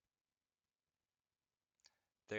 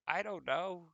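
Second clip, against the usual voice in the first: much higher and louder, fed-up cry; exasperated outburst; 11 semitones higher, 8 dB louder, slower than usual. Real, not acted. Overwhelmed by family questions, loud exasperated cry. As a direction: throw your hands up and cry it out.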